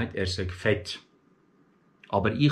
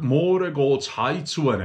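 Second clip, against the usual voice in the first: apprentice's Bündner dialect; 4 dB louder, slower than usual. Retold or imitated. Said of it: "sagt mir der Stift".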